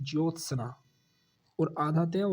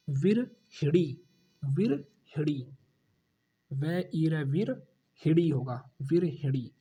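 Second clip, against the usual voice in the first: slow model word; slower than usual. Shown as a demonstration. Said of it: "क्या होगा".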